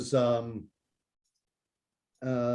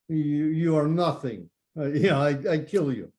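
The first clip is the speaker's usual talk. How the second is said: put-on drunk Russian boxer; 2 semitones higher than usual. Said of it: "the Russian guy's all drunk".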